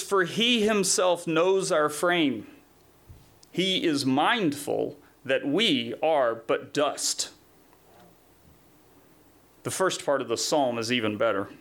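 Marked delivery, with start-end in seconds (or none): 0.0-7.3 slow, weighted Bible reading; measured pulpit reading with drawn-out key words; scripture reading. Acted. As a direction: read the verse out deliberately. Reads scripture aloud.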